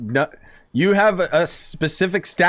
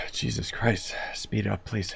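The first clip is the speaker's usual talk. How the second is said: exasperated; 5 semitones lower, 9 dB quieter, slower than usual. Real, not acted. Player impatient with slow dialogue.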